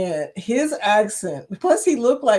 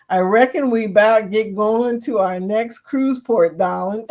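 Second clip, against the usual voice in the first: lightly put-on Southern accent; drawled Southern twang; 5 dB louder than usual. Reading out a listener's request to hear the speaker say it, Southern accent. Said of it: "it ain't gonna sound like that".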